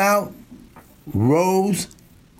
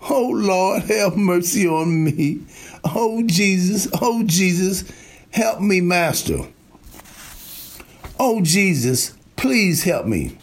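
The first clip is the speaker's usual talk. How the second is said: a lightly imitated desperate plea, a bit higher; mock pleading cry; 3 semitones higher than usual. Preacher mimicking the congregation crying out to Jesus, mock pleading. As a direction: imitate a believer begging Jesus for help, half-mocking. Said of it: "you cry out some more".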